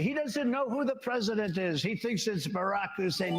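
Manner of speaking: a hint of mock alarm, starting high; mimicking critics. Mimics critics' alarmed reaction to his joke.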